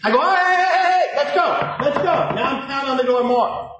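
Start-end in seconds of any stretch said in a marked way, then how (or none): 0.2-2.1 loud, high rapid calls; raised impatient reenactment; retold demand. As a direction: bark it through the door, acted. Banging on the door.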